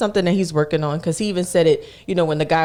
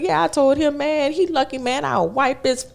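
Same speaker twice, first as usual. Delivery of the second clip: high, boastful imitation of an older man; mock the customer's tough-guy boasting; old head bragging; 7 semitones higher than usual. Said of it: "an old head".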